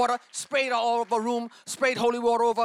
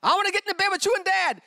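higher child's plea, a hint of a scared girl; daughter's plea; 10 semitones higher, 3 dB louder than usual. Daughter begging to sleep in parents' bed, lightly voiced. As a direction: plead like a frightened twelve-year-old. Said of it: "she'd wake up screaming".

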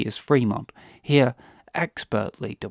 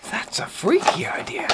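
whisper; 9 semitones higher than usual. Acted. Conspiratorial aside about disco.

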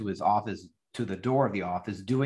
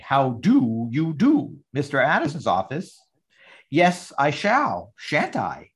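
slow, hammed-up refined lady answering the phone; posh phone voice; 4 dB louder, slower than usual. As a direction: stretch every word like a grand English lady.

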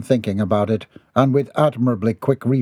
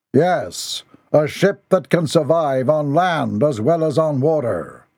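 higher, grave leader's voice; solemn clan leader; 4 semitones higher, slower than usual. Acted. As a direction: speak like a solemn commander. Clan leader explains plan.

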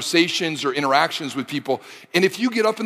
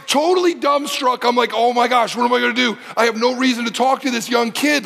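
mock panic; 6 semitones higher than usual. Panicked retelling.

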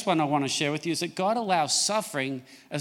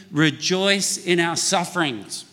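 slowed, each word spaced for the room to join; slow unison reading; slower than usual. Shown as a demonstration. Pastor leading congregation to repeat the verse, slow. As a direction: lead the crowd through it slowly. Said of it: "Say that with me".

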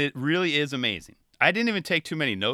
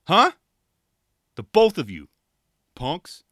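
mock cocky trash talk, with the taunting lines louder; Mark Suciu; 6 dB louder than usual. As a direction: brag and taunt like a skater calling everyone out. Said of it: "the way I hear this song is in Mark Suciu voice".

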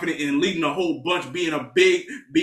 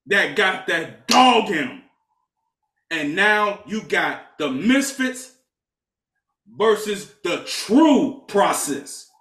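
hype promo. Acted. Hyping up the Finals matchup.

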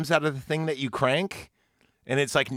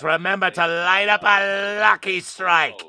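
hammed-up old-timey ad read; a hint of a vintage radio pitchman; old radio announcer. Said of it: "Old-timey radio?".

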